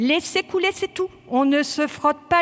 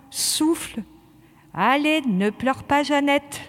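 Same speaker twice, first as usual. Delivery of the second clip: calming voice; 2 semitones lower than usual. Real, not acted. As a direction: talk the gasping recruit down gently. Instructor calms a choking recruit.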